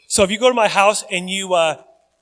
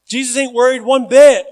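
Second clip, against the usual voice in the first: emphatic preaching; 5 semitones higher, 10 dB louder than usual. Real, not acted.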